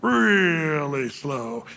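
very slow, drawn-out Southern accent; slow southern drawl. Shown as a demonstration. Preacher imitating his skinny friend Peter, slow Southern drawl. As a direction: stretch every word like a slow Southern hick. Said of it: "like this with a southern drawl".

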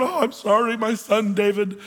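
lightly hammed-up tearful apology; mock weeping. Saul apologizing to his son David, mock weeping. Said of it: "he wept loudly and cried".

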